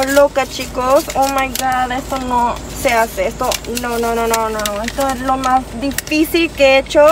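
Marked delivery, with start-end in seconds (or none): none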